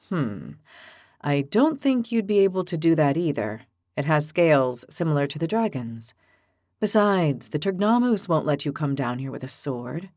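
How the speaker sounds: low, measured, reasonable voice; calm gentle giant. Acted. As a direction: patiently talk her down. Evo reasons patiently.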